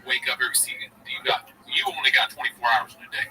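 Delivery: lightly voiced bro podcaster bragging; Schultz impression. Mimicking a podcaster bragging to fans, lightly voiced bro. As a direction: hype up your grind like a podcast bro. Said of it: "Schultz is his character".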